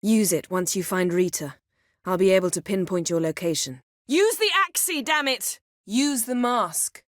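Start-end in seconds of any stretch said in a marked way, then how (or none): 4.1-7.0 urgent shout. Acted. Urgent command mid fight.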